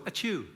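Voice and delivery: ordinary high sneeze; a normal English sneeze. Shown as a demonstration. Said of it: "Normally English people go".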